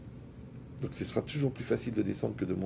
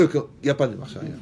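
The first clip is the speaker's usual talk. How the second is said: mock Moroccan French accent, higher and louder; Moroccan accent joke; 4 semitones higher, 6 dB louder, faster than usual. Preacher jokes that Moroccans have no reverse gear, mock Moroccan accent. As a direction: tease it out in a playful Moroccan accent. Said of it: "Comme chez les Marocains".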